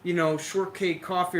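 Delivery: mocking fancy order. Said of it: "All these people, like".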